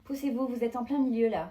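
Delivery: pushy and irritated; bossy annoyance. Acted. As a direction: order them out of the way. Barges through, ordering others aside.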